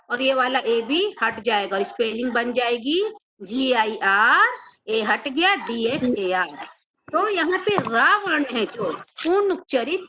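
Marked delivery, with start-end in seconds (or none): 3.4-4.5 slow spelling. Shown as a demonstration. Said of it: "spelling out letters slowly". 5.6-6.7 slow spelling. Shown as a demonstration. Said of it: "spelling out letters slowly".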